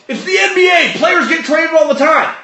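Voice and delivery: high, shouted sarcastic cliché; mock exasperated quote. Host mocks pundits with a high, shouted sarcastic cliché. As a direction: bark it out like an annoying pundit. Mocking a repeated sports cliché.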